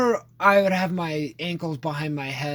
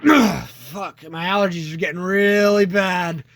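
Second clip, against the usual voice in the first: louder, hammed-up allergy moan; mock complaint; 5 dB louder, slower than usual. Friend imitating the faked allergy excuse, louder hammed-up moan. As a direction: fake a bad allergy flare. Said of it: "he goes".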